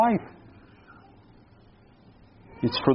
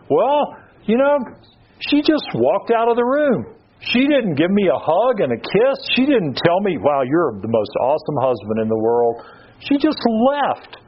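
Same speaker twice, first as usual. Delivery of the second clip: aggrieved whining; 5 semitones higher than usual. Retold or imitated. Husband sulking that his wife didn't thank him, mock-aggrieved whine. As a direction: pout it out like an unthanked husband. Husband acting out resentment over dishes.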